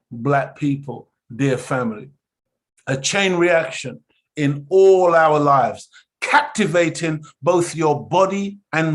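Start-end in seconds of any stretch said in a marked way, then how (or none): 2.9-5.9 slow, louder, all stressed; slow emphatic chain reaction. Shown as a demonstration. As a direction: spell out chain reaction deliberately. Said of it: "We emphasize that".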